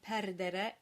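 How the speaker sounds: perdere with open "eh" in the unstressed final syllables; Southern Italian dialect. Shown as a demonstration. Teacher contrasting dialects for singers, perdere with southern open E's. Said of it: "In a Southern dialect, you'll tend to get pronunciations like".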